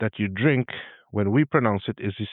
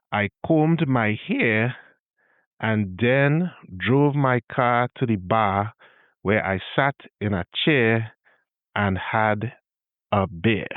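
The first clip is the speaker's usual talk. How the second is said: Trini accent sentence; slower than usual. Shown as a demonstration. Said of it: "to modify our earlier example".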